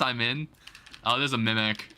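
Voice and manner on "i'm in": hacker man voice. Pretend. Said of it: "In your, in your hacker man voice".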